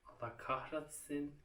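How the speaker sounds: quiet slow frustrated curse; muttered curse. Real, not acted. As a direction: curse it under your breath, slowly. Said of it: "Kahretsin Allah".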